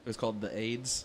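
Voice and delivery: put-on drawled Southern accent on the aids; southern twang. A Southern twang for the podcast crowd. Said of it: "adorable southern twang you got there".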